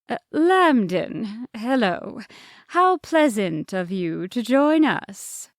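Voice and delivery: cheerful moose conductor, singsong; polite conductor voice. Acted. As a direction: greet each passenger brightly. The moose answers Lambden.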